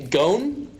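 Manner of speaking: "Gon" said short, in place of going; Pittsburgh "Gon". Shown as a demonstration. Teaching friends the Pittsburgh "Gon". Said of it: "instead of going or goin', they say".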